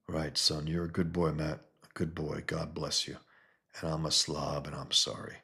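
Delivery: quiet, regretful murmur; soft sad apology. Acted. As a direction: mumble it like a sorry drunk father. Drunk dad blessing his son.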